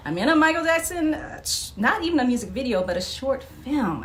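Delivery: high, fast excited gushing; starstruck gush. Retold or imitated. Retelling meeting a pop star on set, excited gush. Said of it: "I was like".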